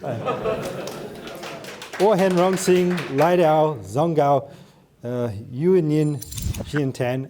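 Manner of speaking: halting Mandarin with a heavy English accent; careful learner's Mandarin, English accent. Real, not acted. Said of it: "my accent really sucks".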